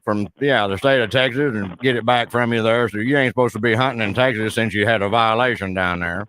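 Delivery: hammed-up backwoods Southern caller; Southern hick prank caller complaining to a store clerk; put-on rural Southern accent. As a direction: play a blustering Southern good old boy on the phone. Roy Mercer character voice held.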